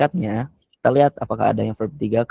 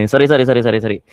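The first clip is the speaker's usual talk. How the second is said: laughing apology, a bit louder; 6 dB louder, much faster than usual. Real, not acted. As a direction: laugh through the sorries. Laughing apology after a mistake.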